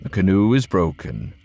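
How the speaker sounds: low, steady, composed man; calm Ulf voice. Acted. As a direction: keep it level and unbothered. Ulf's low grave voice.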